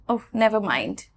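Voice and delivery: understated, weary brush-off; mildly fed up. Shown as a demonstration. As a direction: drop the matter, a little exasperated. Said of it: "আমি একদম pissed off হয়ে গেছি". (একটু বিরক্ত হয়ে হাল ছাড়া)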